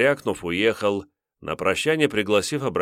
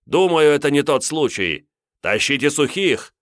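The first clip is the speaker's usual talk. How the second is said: firm order; 7 semitones higher, 5 dB louder than usual. Acted. Priest orders dry wood.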